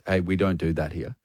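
low, hushed warning; quietly voiced barman telling someone off; barman's warning. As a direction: have a discreet word, low and soft. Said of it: "he goes".

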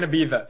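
Ibiza the Castilian way, z as th. Retold or imitated. Co-host mocks try-hard clubber, Ibiza with th. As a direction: lisp the z in Ibiza into th. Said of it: "If you start doing Ibiza".

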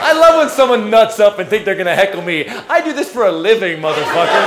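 loud, forceful putdown; combative comeback. Real, not acted. Comedian telling off a heckler, loud and combative. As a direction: hit back hard at the heckler.

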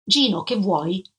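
slow, curt, unwelcoming question; dry, impatient greeting at the door. Acted. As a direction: clip it off like she wants him gone. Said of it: "Disse secca secca".

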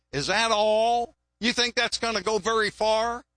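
lightly voiced scoffing onlookers; mocking. Rich givers belittle a widow's small gift, mildly mocking. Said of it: "they mocked her and said".

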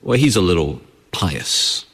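understated disdain, put on as a quote; mock sneer. People talking about someone being pious, with a sneer. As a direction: imitate a mildly sneering remark about someone. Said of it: "they say it with a sneer in their voice".

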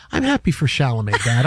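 a hint of a dreamy daughter; imitating daughter. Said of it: "she says".

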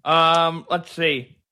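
talking around a pen; words muffled by a pen; pen in mouth. Real, not acted. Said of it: "I got my pen in my mouth".

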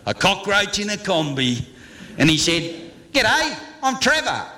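rhythmic comic verse in broad Australian; bush ballad recital. Acted. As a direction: spin a rollicking Aussie yarn in rhyme. Bush ballad continues, with acted dialogue.

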